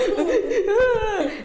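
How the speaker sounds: high mock sobbing through laughter; imitated crying. Telling friends about crying at a short film, mock sobs. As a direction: act out your own crying, half laughing. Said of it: "my bitch ass starts crying".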